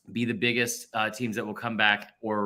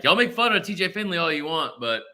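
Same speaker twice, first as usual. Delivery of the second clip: put-on Southern accent. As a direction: quote a fan with a hint of Southern twang. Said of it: "I'm giving a Southern accent".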